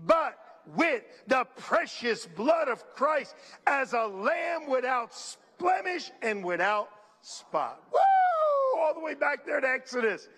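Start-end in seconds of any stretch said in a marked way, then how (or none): 0.1-7.8 getting louder. Shown as a demonstration. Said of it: "come on, I can't hear you". 7.9-8.8 high, loud joyful whoop; excited whoop. Real, not acted. Preacher's excited shout.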